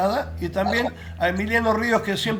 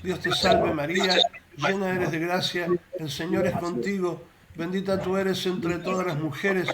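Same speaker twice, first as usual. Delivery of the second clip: prayer recitation. Acted. Leads a spoken prayer.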